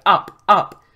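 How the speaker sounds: loud, high repeated command; shouted. A narrator's reading. Rider urges the dragon to climb, shouted. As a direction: shout it upward in quick bursts. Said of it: "I shouted".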